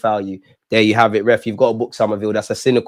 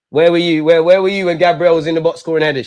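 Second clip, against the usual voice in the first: angry shout; 3 semitones higher, 5 dB louder than usual. Real, not acted. Fan yelling at players on screen.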